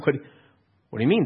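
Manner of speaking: baffled question, pitch jumping up. Acted. Disciples answering Jesus's question, baffled. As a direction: ask it in acted bafflement. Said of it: "They're baffled".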